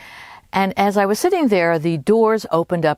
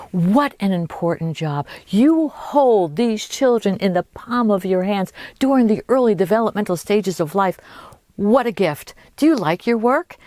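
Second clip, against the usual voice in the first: imitated gushing praise, pitched up; gushing admiration; 5 semitones higher than usual. Playwright flattering the early childhood educator, gushing admiration. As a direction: lay the admiration on lightly thick.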